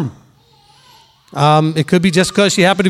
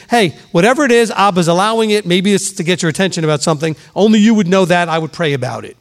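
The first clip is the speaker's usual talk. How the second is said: gentle. Shown as a demonstration. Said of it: "See how gentle that is?".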